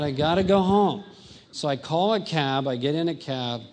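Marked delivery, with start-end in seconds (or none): 0.0-1.0 panicked thought. Retold or imitated. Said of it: "So I thought".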